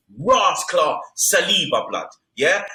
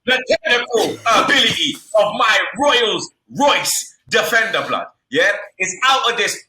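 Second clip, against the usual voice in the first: hyped shouting; 4 semitones higher than usual. Real, not acted. Hyped praise of defender.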